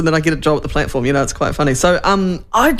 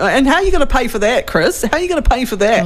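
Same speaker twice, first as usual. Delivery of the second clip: imitating Luxon; 5 semitones higher than usual. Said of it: "Luxon kept going to".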